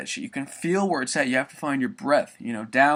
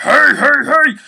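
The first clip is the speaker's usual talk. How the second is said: very high, loud thin yelp; high squeaky hey; 12 semitones higher, 13 dB louder, much slower than usual. Shown as a demonstration. Showing the wrong, thin version, high squeaky yelp. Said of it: "instead of it sounding like".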